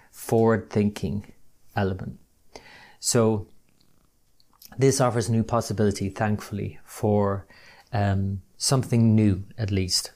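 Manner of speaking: walking around while recording; pacing near and far. Real, not acted. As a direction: voice drifting on and off mic. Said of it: "pardon me if you can hear me moving around as I'm recording this".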